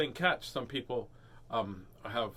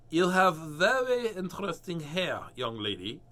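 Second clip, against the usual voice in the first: slow, louder, overly polite; be politely taken aback; a hint of a polite hairdresser; 3 semitones higher, 4 dB louder than usual. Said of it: "the hairdresser said politely".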